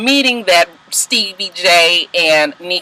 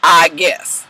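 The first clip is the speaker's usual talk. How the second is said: resigned. Retold or imitated. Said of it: "So I was just like".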